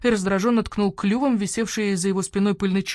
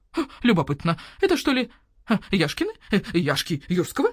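owl shopkeeper voice; 2 semitones higher than usual. Acted. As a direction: voice the grumpy owl merchant. Owl appraising.

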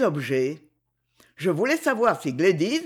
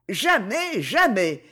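crying out refusal; 2 semitones higher, slower than usual. Acted. Christine refusing the drunk strongman, mild cry. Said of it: "criait Christine".

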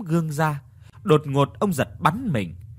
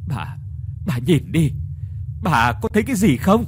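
trembling voice; 2 semitones higher than usual. Acted. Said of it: "Giọng của ông Tứ thì run run".

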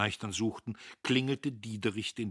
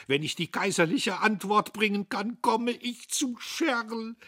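higher, slowing at the end, rapt; dreamy hope; 14 semitones higher, 8 dB louder than usual. Acted. Notgroschen tells the men his hopes: eager dreamy voice. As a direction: savour the dream of success. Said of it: "voll ausschweifender Hoffnungen".

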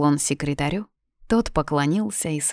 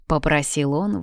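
ordinary delivery

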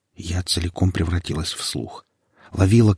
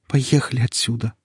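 pleading; 4 semitones higher than usual. Acted. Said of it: "попросила я".

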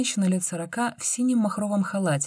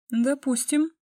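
suspicious; 10 semitones higher, slower than usual. A narrator's reading. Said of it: "подозрительно сощурилась Оля".

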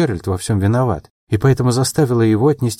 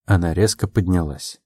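plain reading voice

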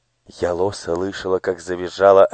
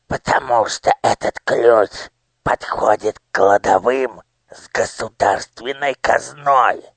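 squeaky voice; 4 semitones higher than usual. Acted. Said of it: "пропищал".

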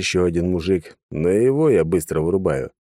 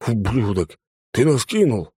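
betrayed thug; 4 semitones higher than usual. A narrator's reading. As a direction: curse the traitor. First thug lunges.

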